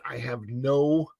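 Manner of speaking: usual speaking voice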